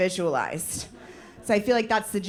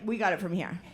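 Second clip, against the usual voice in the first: lower, softer matter-of-fact line; a hint of calm body voice; 4 semitones lower, 5 dB quieter than usual. Her body taking control, low quiet calm. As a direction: let the body take over calmly. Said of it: "my body was like".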